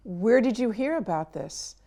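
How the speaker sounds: gentle, open question; calm and curious. Retold or imitated. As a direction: ask it because you truly want to know. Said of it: "You're saying".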